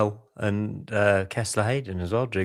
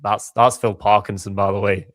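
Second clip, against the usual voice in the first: louder, rough stab at Scottish; Scottish accent; 6 dB louder than usual. Retold or imitated. Podcaster retelling a manager's interview, in a loud, poor Scottish accent. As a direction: badly imitate a Scottish accent, projecting it. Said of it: "That's awful. Sorry, I won't do that again".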